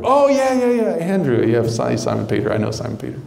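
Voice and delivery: realize, then shrug it off; oh-yeah recognition. Acted. Listener recognizes only Peter.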